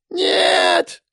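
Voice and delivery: very high, loud creaky shriek; old goddess screaming to stop her. Acted. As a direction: screech the no in panic. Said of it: "раздался скрипучий крик".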